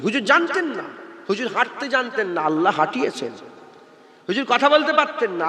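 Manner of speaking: ordinary talk, nothing marked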